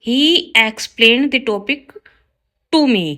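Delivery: slow, careful read of the corrected sentence; slow teacher dictation. Shown as a demonstration. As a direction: lay out each word clearly for the class. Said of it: "right होगा".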